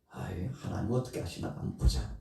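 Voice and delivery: whispered, defiant; whispered defiance. Acted. Jonah watching from the hill, whispered defiance. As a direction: hiss it to yourself, watching.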